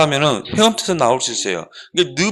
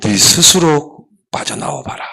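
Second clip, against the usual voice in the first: detached monk; 4 semitones lower, slower than usual. Acted. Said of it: "눈을 감고 딱 눈을 떠고 뭐라 하냐면은".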